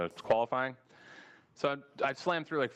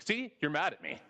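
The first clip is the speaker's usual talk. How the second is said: high, smug gotcha "See?"; triumphant gotcha; 5 semitones higher than usual. Retold or imitated. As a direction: squeal it like you caught them out. Acting out an accuser, triumphant.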